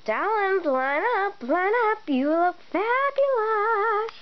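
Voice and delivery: lightly voiced fussy photographer; flamboyant photographer. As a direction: camp fashion photographer coaxing the class.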